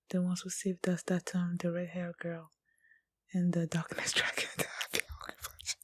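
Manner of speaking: hushed reading under the breath; soft whisper. Real, not acted. Viewer reading subtitles quietly, whispering. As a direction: murmur it to yourself.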